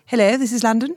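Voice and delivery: put-on old posh voice. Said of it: "I want to say something like".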